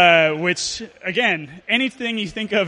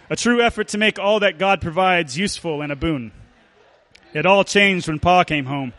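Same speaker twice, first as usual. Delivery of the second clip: lightly put-on storyteller narration; measured, mildly dramatic tale-telling. Reading a Dust Bowl tale to an audience, storyteller voice. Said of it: "read it in the voice of the storyteller".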